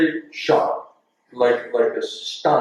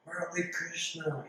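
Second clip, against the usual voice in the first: happy greeting; 3 semitones higher, 17 dB quieter than usual. Retold or imitated. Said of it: "he was so happy to see me".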